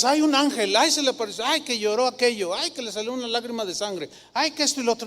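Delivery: a hint of a credulous gossip sighing ay; lightly mock the miracle-chasers; mocking gullible believer. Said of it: "no digas". (imitación ligera de un crédulo exagerado)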